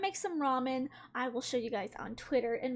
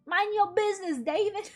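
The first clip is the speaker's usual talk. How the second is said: meme quote; 4 semitones higher, 3 dB louder than usual. Retold or imitated. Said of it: "That meme".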